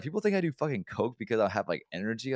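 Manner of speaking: high-pitched, exasperated retelling; aggrieved complaint. Retold or imitated. Man complaining to coworkers about a rumor, aggrieved. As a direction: protest it high, like it's absurd. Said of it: "I got mad about that shit".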